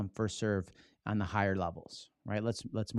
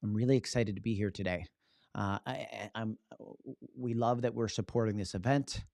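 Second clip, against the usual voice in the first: nervous. Shown as a demonstration. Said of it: "white knuckle going".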